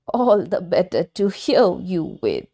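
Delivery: the wolf hiding in granny's bed; sly wolf. Acted. Wolf disguised as Granny answering the girl, sly.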